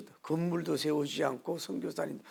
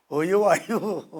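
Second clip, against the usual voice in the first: very slow, louder Chungcheong call, half laughing; Chungcheong accent; 4 semitones higher, 11 dB louder, much slower than usual. Retold or imitated. Pastor teasing slow Chungcheong speech, laughing Chungcheong accent. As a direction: drag it out lazily, Chungcheong style, with a laugh. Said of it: "충청도".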